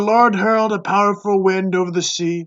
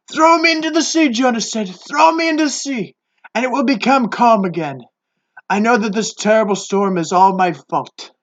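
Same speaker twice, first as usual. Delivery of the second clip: dramatic Jonah; 5 semitones higher than usual. Acted. Jonah's dramatic self-sacrifice.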